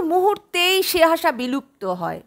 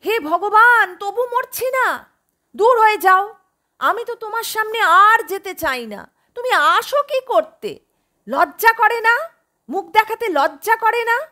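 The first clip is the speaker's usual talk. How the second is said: bitter outburst; 6 semitones higher than usual. Acted. Sick mother drives daughter away.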